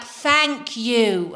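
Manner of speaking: slow, over-enunciated mock thanks; condescending imitation. Seatmate thanking a presumed foreigner, mildly patronizing. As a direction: stretch it out as if to someone slow. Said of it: "he must think I'm retarded".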